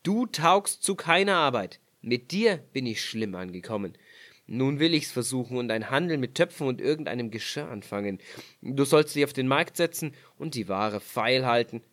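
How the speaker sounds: leicht gespielter tadelnder Ehemann; Mann spricht. Acted. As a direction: ein Hauch von vorwurfsvollem Mann. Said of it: "sprach der Mann". (der Mann tadelt seine Frau, leicht gespielt)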